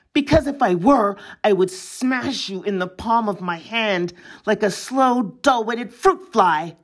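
rising sharp threat, then slowing on the insult; fierce threat. Acted. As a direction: threaten him, savouring each word. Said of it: "and added fiercely".

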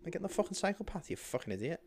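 half-acted angry outburst at a cyclist; mock road rage rant.

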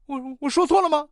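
mock startled stutter; astonished. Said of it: "小张很惊讶地说".

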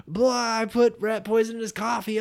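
high, panicked blurt; hammed-up alarm, pitched well up; mock panic. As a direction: act out a horrified realization. Acts Violet realizing the poisoning.

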